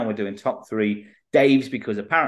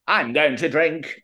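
slightly raised, slow put-on voice; a diva singer; 5 semitones higher than usual. Anecdote quoting a star, failed impression in a put-on voice. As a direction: attempt a diva without managing the accent. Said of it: "That sounds like a singer. Sa-, same sort of voice".

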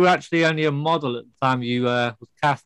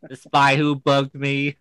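robot voice; much slower than usual. Pretend. Robot Bond jokes.

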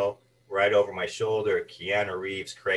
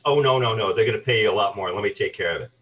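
louder, fast smooth-talking agent; confident agent; 6 dB louder, faster than usual. Retold or imitated. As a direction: brush it off like a deal-maker who knows better. Agent reassures him about pay.

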